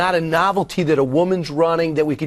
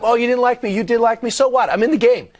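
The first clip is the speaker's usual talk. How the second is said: higher-pitched, brash mock comeback; defiant retort; 7 semitones higher than usual. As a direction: shrug off the critics in a raised pitch. Acting out candidate's defiant retort.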